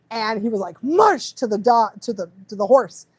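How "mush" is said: high mock sled-driver call; joking command. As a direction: call it out like urging on dogs. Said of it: "thought he was being funny".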